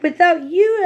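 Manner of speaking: grateful. Acted. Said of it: "the grateful witch cried".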